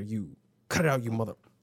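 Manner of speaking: ordinary delivery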